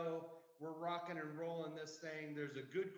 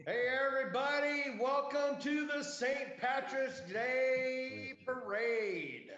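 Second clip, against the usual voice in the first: put-on loud, high Irish-accented parade announcer; 8 semitones higher, 7 dB louder, slower than usual. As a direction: hail the crowd in a big, drawn-out Irish accent. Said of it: "I'm not even gonna try to do the Irish accent".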